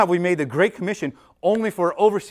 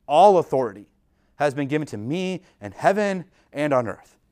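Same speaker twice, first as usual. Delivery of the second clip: proclaimed. Acted. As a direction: declare it with authority, slowing down. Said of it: "this is what he says to them".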